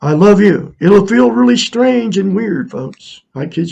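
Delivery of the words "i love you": louder, higher, pushing the words out; forced affirmation. Shown as a demonstration. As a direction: make yourself say it with effort. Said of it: "Just go".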